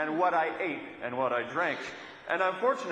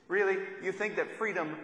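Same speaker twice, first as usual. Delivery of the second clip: incredulous really; 3 semitones higher than usual. Shown as a demonstration. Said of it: "it really translates best as".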